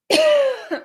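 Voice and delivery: a real chesty cough. Real, not acted. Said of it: "Sorry, I'm coughing".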